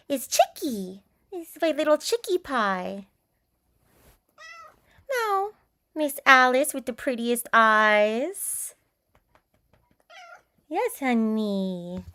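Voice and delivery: drawn-out sweet nothings to the kitty; tender pet talk, slow. Real, not acted. Doting on the cat.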